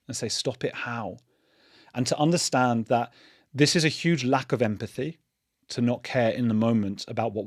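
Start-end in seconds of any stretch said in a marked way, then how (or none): 0.3-1.2 very calm question. Shown as a demonstration. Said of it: "ask them questions very calmly".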